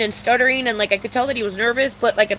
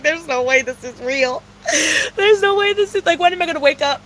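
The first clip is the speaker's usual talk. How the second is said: laughing mock despair; 2 semitones higher than usual. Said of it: "I was like".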